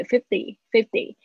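"fifty" with the T slightly voiced toward D; softened T. Shown as a demonstration. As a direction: say "fifty" like "FIF-dy". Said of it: "有一点浊化的感觉".

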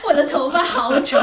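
retold wail broken up by laughter; laughing self-quote. Storyteller quoting self to roommate about a bad haircut, laughing. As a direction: say it through a laugh, a bit loud.

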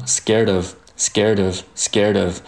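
"scared of" with d as a quick tongue tap; flapped linking. Shown as a demonstration. Teacher demonstrating the flap in scared of, flapped linking. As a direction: flick the d of "scared" straight into "of". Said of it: "它会变成一个flap T".

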